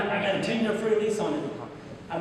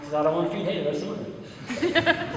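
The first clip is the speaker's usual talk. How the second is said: laughing reply. Retold or imitated. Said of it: "I'm like".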